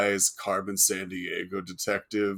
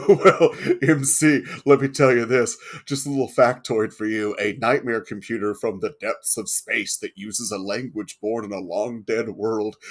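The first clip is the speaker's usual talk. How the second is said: put-on old sci-fi announcer; 2 semitones higher, 7 dB louder than usual. Dramatic lore announcement to friend.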